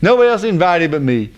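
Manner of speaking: hammed-up retold boast; bragging. Haman boasting he's the big cheese, mock bragging. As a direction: play the self-important braggart. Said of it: "he's bragging about".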